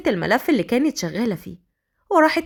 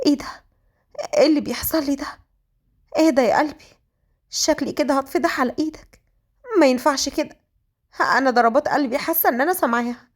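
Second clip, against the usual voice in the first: higher-pitched, fluttery inner voice; smitten flustered heroine; 4 semitones higher, faster than usual. Acted. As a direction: panic privately over a sudden crush. (بلهفة وارتباك)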